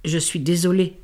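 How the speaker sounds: soft murmured sorry; murmured apology. Acted. Amal apologizing to her father, murmured. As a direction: murmur it, ashamed. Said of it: "murmurai-je".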